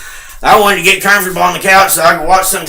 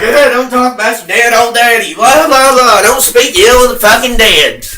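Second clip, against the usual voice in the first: higher whiny mimicry of scolding people; mocking quote; 5 semitones higher than usual. Son mocking people who scold him, whiny mimicry. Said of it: "they're like".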